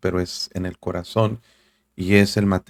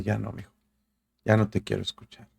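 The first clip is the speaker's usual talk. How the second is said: quiet refusal; 6 dB quieter than usual. Acted. God speaking, quietly refusing to listen.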